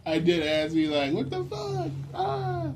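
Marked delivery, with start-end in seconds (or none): 1.1-2.7 very high squeal; mock shock. Recalling own reaction, high mock-shocked squeal.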